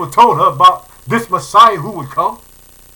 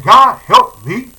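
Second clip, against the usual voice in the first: slow, louder begging cry to God; desperate plea; 7 dB louder, slower than usual. Retold or imitated. Preacher voicing the mother begging God for help, slow pleading. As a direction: beg God slowly for help. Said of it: "She's saying".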